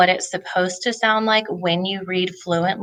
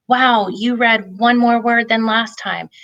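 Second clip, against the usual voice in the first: celebrating praise; 4 semitones higher than usual. Shown as a demonstration. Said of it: "celebrate success".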